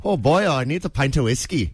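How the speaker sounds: lightly put-on Irish; Irish accent attempt. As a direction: try an Irish pub accent. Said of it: "let's hear everyone's Irish accent".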